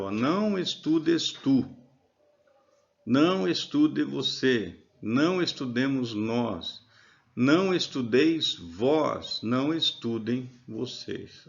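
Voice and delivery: não leaned on, each line slow; stress on não. Shown as a demonstration. Teacher stressing não in the negative imperative. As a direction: hit não before every verb, slowly. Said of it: "só coloco o não antes do verbo".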